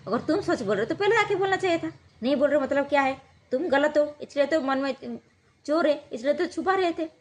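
half-acted furious husband scoffing at her innocence; angry accusation.

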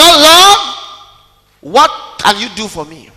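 a lightly voiced grasping churchgoer; mocking needy believer. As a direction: play the selfish asker, begging.

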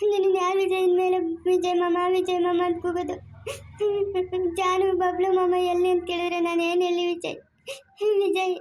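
tearful pleading with a catch in the voice; a mother cries to her husband for the lost child; crying. Acted. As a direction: weep to Vijay while begging for the child back. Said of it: "ಅಳ್ಬೇಡ, ಸುಮ್ನೆ ಇರೆ".

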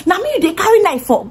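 imitating a high angry yell; mock Tim's outraged shout; Tim screaming. Tim yells at the cousin holding a knife, mock-angry. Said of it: "Tim here is screaming".

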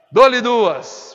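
loud auctioneer call. Real, not acted. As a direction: ring out the going-twice call. Auctioneer's going-twice call. (chamada alta de leiloeiro)

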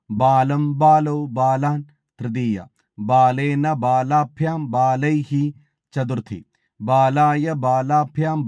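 measured, even chanting of each case form; model recitation. Shown as a demonstration. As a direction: recite the declension slowly, like a student at a recitation contest. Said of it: "നമുക്കൊരു മാതൃക കാണാം". (മാതൃകാ അവതരണം, ഓരോ രൂപവും താളത്തിൽ ചൊല്ലുന്നു)

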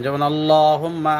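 আল্লাহুম্মা with the লাম stretched one alif and the doubled মিম held in ghunna; slow teaching demo of আল্লাহুম্মা, lengthening the vowel after লাম; tajweed demo. Shown as a demonstration. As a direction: model আল্লাহুম্মা carefully for the students. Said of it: "লামের উপরে কারা জবর এক আলিফ টান".

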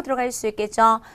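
normal talking voice

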